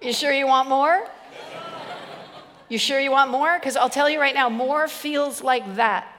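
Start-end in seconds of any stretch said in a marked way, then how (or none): 0.0-1.1 teasing. Real, not acted. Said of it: "teasing question to the crowd". 2.7-3.6 laughing. Real, not acted. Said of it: "repeated with a laugh".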